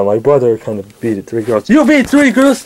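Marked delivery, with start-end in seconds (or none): 1.7-2.7 high-pitched disbelief; incredulous challenge. Acted. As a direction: question it as if appalled. Challenging what was just admitted.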